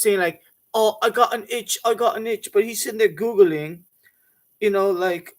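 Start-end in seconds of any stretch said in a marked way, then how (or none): 0.7-2.5 a lightly voiced sneaky dad faking an itch, a bit higher; sneaky cheeky dad. Under the table at a family party, dad fakes an itch, sneaky and cheeky. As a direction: play the sneaky cheeky cover story. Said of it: "He'll be sneaky cheeky like this".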